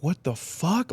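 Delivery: mock-baffled, rising at the end; retold shock. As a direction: imitate stunned disbelief with lifted pitch. Retold shock at arrest warrant.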